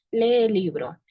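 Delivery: the "lee" E stretched into one long vowel. Shown as a demonstration. Student demonstrating a lengthened vowel to the class, stretching "lee". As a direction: draw out the double E in "lee". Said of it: "la palabra lee se alarga demasiado".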